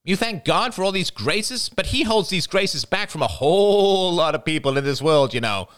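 high, bitter, accusing outburst; venomous passion. A narrator's reading. Jada accusing the praying family, high venomous voice. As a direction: spit out the grievances. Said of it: "Her voice trembled with venomous passion".

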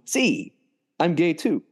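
lightly imitated high-pitched plea; mock pleading. Retelling a plea for help, mock high voice. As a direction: lift it high, half laughing at it.

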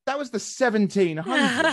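put-on high, laughing disbelief at the old nickname; incredulous laughing. Mocking the limey nickname with a high incredulous laugh. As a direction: laugh it out as if it's absurd. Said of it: "I'm like".

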